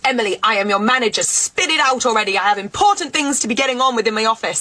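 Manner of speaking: a hint of an entitled manager scolding; pompous boss. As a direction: lecture her like a smug boss who thinks she's a catch. Plays the boss Karen.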